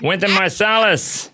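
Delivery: lightly voiced talk-show host; host introducing a guest, comic impression; Jay Leno. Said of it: "the deep Jay Leno voice".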